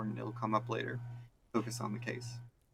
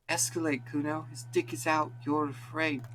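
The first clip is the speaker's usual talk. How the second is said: egging on; 6 semitones higher than usual. Acted. Kid egging on the screaming.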